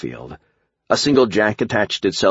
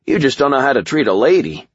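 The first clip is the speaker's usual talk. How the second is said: light, higher-pitched teasing reply; cheerful; 6 semitones higher, 3 dB louder than usual. A narrator's reading. Hero teases the muttering Cloak about treating a lady, cheerful. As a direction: toss it back cheerfully, pitch lifted. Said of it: "I said cheerfully".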